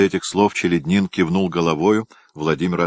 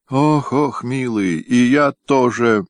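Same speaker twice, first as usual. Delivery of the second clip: higher, mournful sighs of despair; despairing lament; 7 semitones higher, slower than usual. A narrator's reading. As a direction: wail in hopeless despair. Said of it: "махнул в отчаянии рукой".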